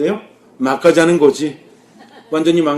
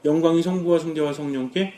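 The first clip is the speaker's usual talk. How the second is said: softly recited doxology; quiet private prayer; 6 dB quieter than usual. Shown as a demonstration. Slipping away to the mirror to calm anger, praying softly. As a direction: say it quietly to yourself. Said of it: "조용히 잠깐 화장실에도 가는 것처럼".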